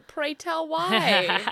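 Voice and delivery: slow, drawn-out, theatrical; mock formal. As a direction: ask archly, very slowly.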